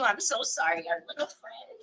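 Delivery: soft whisper to the butterfly; whispered apology. Real, not acted. Crafter to the butterfly she must cut, whispering sorry. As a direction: breathe a mock sorry to the little friend.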